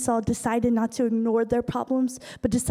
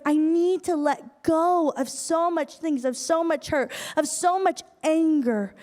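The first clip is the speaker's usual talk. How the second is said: imitating a heartfelt release, higher and drawn out; earnest plea; 4 semitones higher than usual. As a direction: plead it slowly, pitch lifted, leaning on each phrase. Acting out father's plea to release anger.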